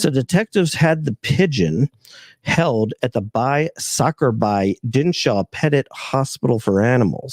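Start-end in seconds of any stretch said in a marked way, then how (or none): 2.4-7.3 reading the name in a put-on Indian accent; a hint of Indian accent on the hospital name. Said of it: "that was an incredible Chinese or Indian accent".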